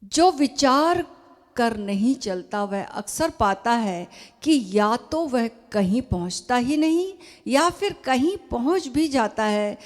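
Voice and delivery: measured, emphatic reading aloud; formal letter reading. Acted. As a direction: read it out deliberately, pausing between phrases. (पत्र का ज़ोरदार, सधा हुआ पाठ)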